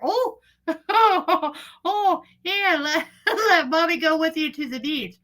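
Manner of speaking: high mock-soothing voice broken by laughter; laughing high coo. Mother coaxing her daughter back to the beach, laughing coo.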